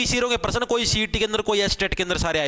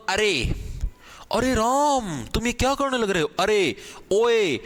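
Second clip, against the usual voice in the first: surprised exclamation; slower than usual. Shown as a demonstration. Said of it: "जिसके अंदर आपको हैरानी हो".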